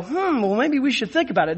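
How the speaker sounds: a hummed hesitation, then a quick musing aside; mock pondering. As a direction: mimic a mild, musing reconsideration. Mimics opponents idly pondering the polemic.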